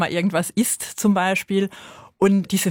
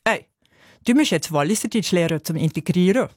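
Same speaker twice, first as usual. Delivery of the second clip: lightly imitating a Walliser German colleague; a hint of Wallis dialect, casual and friendly. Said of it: "sie hat gesagt". (leicht angedeutetes Walliserdeutsch einer Kollegin)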